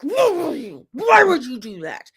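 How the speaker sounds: high-pitched mock scolding; imitating scolding mother. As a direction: wail it as a mock telling-off, falling from high. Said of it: "she's gonna be like".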